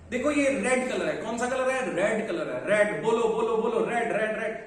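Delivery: insistent acted parent, repeating the word with punch; parent drilling child. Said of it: "पांच सौ बार मैं उससे बोलता हूँ". (बच्चे को बार-बार रटाते अभिभावक की नकल)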